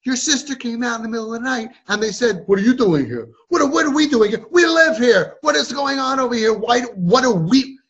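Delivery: exasperated mock parental rant; hammed-up parent losing it; crazed parent. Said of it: "And we become, like, crazy".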